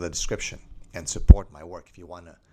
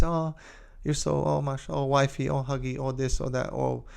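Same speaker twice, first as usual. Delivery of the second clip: high, gushing mock of chattering wives; mock gushing gossip; 7 semitones higher, 3 dB quieter than usual. Wives gushing over bags at their matcha meetup, mocked in a high voice. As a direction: gush over each other's things, mockingly.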